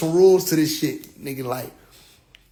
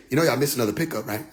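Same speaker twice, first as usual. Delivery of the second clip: a know-it-all voice, pitched down; mock scolding voice; 8 semitones lower, 5 dB quieter, much faster than usual. App calling out a missed pickup, low and teasing. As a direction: lower and softer, teasing the listener. Retelling what the Bible app says.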